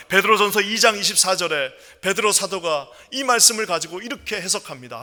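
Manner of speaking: usual speaking voice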